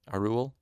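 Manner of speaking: "Arul" with W as oo; assumed Welsh pronunciation. Shown as a demonstration. Narrator guesses the name is Welsh, assumed Welsh pronunciation. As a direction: say "Arul" as Ar-oo-uhl. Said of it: "the W is a oo sound".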